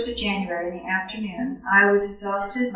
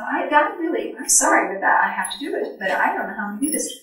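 ordinary delivery

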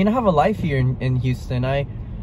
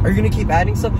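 mocking the worker; 6 semitones higher, faster than usual. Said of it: "you wanna be like".

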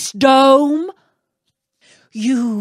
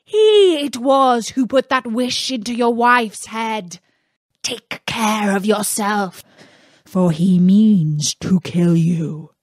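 angry genie; 3 semitones higher, 4 dB louder than usual. Acted. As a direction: scold Aladdin as the outraged genie. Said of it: "loud and terrible shriek".

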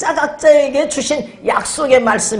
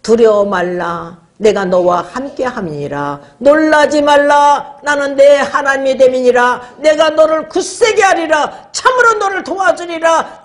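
recited verse from the note, rising; verse read from a slip of paper; note read aloud; 4 semitones higher than usual. Retold or imitated. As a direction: read the note's verse with growing fervour. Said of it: "쪽지를 딱 폈더니".

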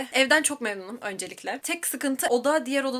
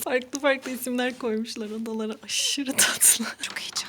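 whispering; 2 semitones higher than usual. Real, not acted. Excited whisper in new room.

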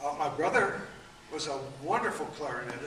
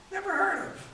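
"never heard of" much higher and louder; emphatic repeat; 5 dB louder than usual. Real, not acted. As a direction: hit the repeat high for effect.

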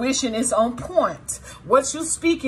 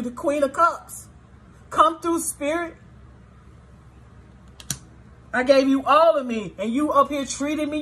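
higher, heated grievance building to a sharp no; voicing viewers' anger; 3 semitones higher than usual. Tarot reader speaking as betrayed viewers to abusive ex, building anger. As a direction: air every betrayal, then slam the door. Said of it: "That's what some of you guys are saying".

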